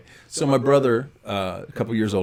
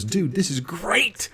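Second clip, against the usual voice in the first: brother laughing; 9 semitones higher, slower than usual. Retold or imitated. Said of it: "He starts dying laughing".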